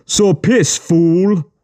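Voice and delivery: high, scornful thug voice; contemptuous captor. A narrator's reading. Captor telling the boy to go, high and scornful. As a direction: spit it at him with contempt.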